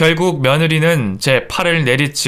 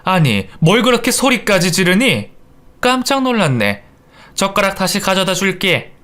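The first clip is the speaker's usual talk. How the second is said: mildly taken aback, higher voice; startled chiding; 5 semitones higher than usual. Acted. Startled mother-in-law to daughter-in-law, mildly reproachful. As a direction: chide in surprise, then settle.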